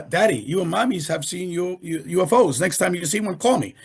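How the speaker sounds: put-on child voice. Dad quotes his young daughter.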